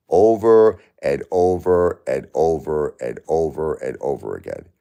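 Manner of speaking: slow, weary repetition trailing down at the end; drawn-out exasperation. Real, not acted. Streamer fed up with reading the same comments, drawn-out exasperation. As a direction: drag out each repeat, then let it drop. Stressing endless repeated comments.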